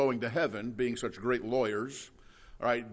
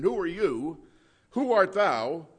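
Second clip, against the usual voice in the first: sarcastic question; 5 semitones higher, 4 dB louder than usual. Retold or imitated. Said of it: "satanic, sarcastic question".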